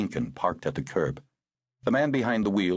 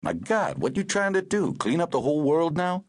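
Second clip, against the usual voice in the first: horrified; 11 semitones higher than usual. Acted. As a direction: burst out in shock. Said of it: "he was horrified".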